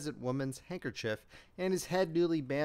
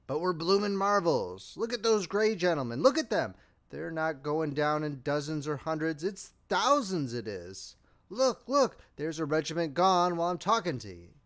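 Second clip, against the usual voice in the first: excited soldier. Acted. Excited soldier marvels at battle.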